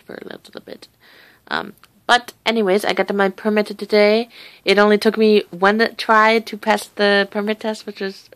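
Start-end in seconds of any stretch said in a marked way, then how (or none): none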